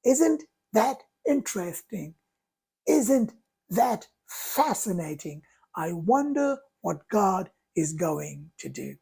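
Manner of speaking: soft, unhurried reframing; calm curiosity. Shown as a demonstration. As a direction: say all three gently, as a calm mantra. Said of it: "I say".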